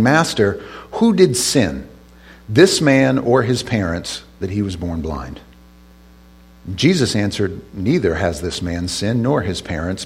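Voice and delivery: measured Bible reading with deliberate pauses; scripture reading. Acted. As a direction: read the verses aloud to a congregation. Reads scripture aloud.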